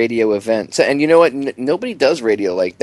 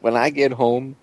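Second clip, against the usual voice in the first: Buford T. Justice. Retold or imitated. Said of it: "Like Buford T. Justice?".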